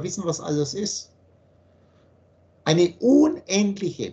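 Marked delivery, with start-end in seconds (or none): 2.6-4.1 "unendliche" slow and louder, leaning on every syllable; slow, loud weight on "unendliche"; stress on unendliche. Shown as a demonstration. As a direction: drag out "unendliche" and press it hard. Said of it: "Betonung liegt auf unendliche".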